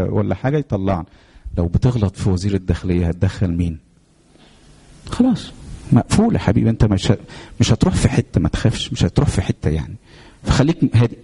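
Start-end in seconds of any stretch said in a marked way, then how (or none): 5.1-8.4 mocking jailer. Jailer mocking Joseph's worry.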